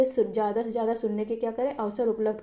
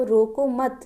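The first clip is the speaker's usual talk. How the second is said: slow रोको मत as one unit, then stop; मत joined to रोको; much slower than usual. Shown as a demonstration. Teacher explains the changed meaning, रोको मत said together. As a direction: attach मत to रोको, pausing after it. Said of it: "ध्वनि का अंतर है ना".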